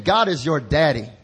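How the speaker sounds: said like you mean it. Shown as a demonstration. To the neighbor, declaring it with conviction. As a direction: proclaim it loud and firm. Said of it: "Say it like you mean it".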